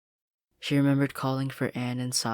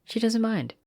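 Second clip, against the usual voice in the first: smug, higher, louder line; smirking; 10 semitones higher, 6 dB louder than usual. Acted. Sasha smirking at Anne, smug and higher. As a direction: gloat with a smirk. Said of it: "Sasha smirked at Anne".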